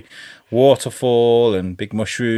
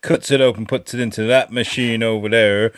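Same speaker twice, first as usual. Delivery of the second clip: mock tour guide. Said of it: "You sound like Principal Skinner".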